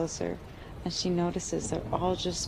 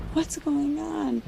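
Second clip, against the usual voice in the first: frightened; 9 semitones higher, slower than usual. Acted. Frightened girl confronts mosquitoes.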